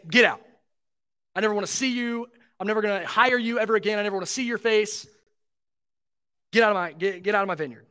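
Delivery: a hint of a furious boss, quick and clipped; imagined master throwing out the workers, mild mock anger; mock angry dismissal. Master to grumbling laborers, hammed-up anger.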